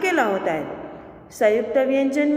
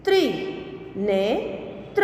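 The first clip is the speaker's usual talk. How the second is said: slow reading; 4 semitones lower than usual. Shown as a demonstration. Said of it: "के उदाहरण हम देखें".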